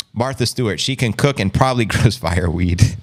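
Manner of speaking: re-reading the line, breaking into a laugh; laughing through it. Real, not acted. Rereading the chat joke to viewers, laughing. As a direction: laugh on "grows fireweed".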